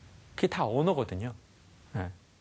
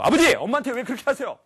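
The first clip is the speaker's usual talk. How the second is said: much higher, louder cry; confronting father; 10 semitones higher, 8 dB louder than usual. Retold or imitated. Son confronting his father about his mother, crying out. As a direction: stand up to him with a loud, high cry. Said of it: "이렇게 한 적이 한 번도 없고".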